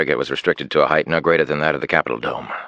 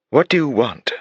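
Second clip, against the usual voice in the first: demanding; 8 semitones higher than usual. Acted. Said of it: "she demanded".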